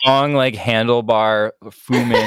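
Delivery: laughing. Real, not acted. Laughing while describing mustache.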